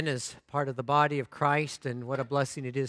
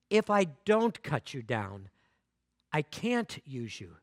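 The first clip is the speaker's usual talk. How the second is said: more serious; slower than usual. Acted. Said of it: "the master's voice grew even more serious".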